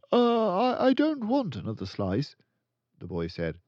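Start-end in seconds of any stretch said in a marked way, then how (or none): 0.1-2.4 put-on high, loud, hesitant child voice; boy stammering a refusal. A narrator's reading. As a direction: stumble and refuse.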